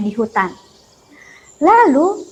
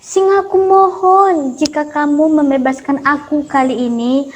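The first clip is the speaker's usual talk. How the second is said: pleading mouse; 2 semitones higher than usual. Acted. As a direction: promise earnestly, small and humble. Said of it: "tikus pun terus memohon".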